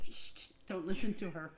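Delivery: unvoiced shushing whisper. Real, not acted. Reader shushing the listeners about her co-reader, whispered. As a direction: hush them conspiratorially.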